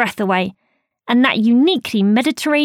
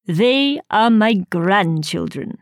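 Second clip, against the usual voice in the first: put-on slow, proud old man voice; a hint of a proud Italian grandfather; proud grandad; 3 semitones lower, slower than usual. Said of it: "he said proudly".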